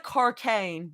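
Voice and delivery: one word with Australian vowels; Australian accent. Shown as a demonstration. Streamer offering proof it is not RP, Australian accent. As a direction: lightly put on an Australian accent. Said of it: "cocaine sounds very Australian".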